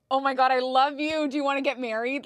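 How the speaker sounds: giddy delight. Retold or imitated. Gushing at the courteous man in line, high giddy delight. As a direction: swoon over him playfully.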